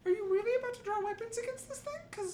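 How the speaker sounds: high, loud alarmed disbelief; panicked, can't believe it; incredulous. Real, not acted. GM alarmed at players.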